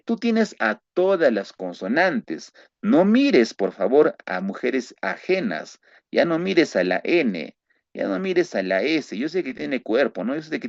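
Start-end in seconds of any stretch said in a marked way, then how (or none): 2.8-5.8 mock commandment. Joking commandment to students.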